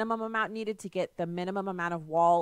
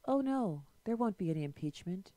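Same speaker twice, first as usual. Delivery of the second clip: mock calm; 4 dB quieter than usual. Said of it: "he's saying it so calmly".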